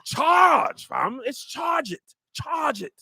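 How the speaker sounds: high shouted British slang, drawn out; British slang accent. Shown as a demonstration. Repeating it on friends' request, British accent. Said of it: "Say it one more time".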